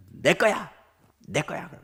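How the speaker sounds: lightly imitated child's protest; possessive toddler. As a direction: insist on it like a small child. Toddler guarding his toys, acted.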